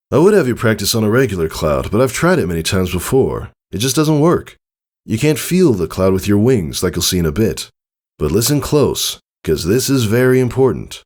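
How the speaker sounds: lightly voiced coaching father; eager father. Father explains lightning work to Scootaloo, brisk and eager.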